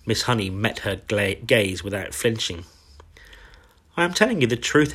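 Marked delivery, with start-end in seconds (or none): 4.0-4.9 insistent. A narrator's reading. Teacher insists to glaring headmistress.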